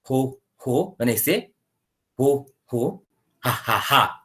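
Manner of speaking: rhythmic ho ho then ha ha ha, fake laughs in a beat; laughter yoga chant. Shown as a demonstration. Teacher demonstrates the laughter yoga belly laugh, chanted laughs. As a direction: demo the belly laugh breathing, a soft chant. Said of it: "Okay, it goes like this".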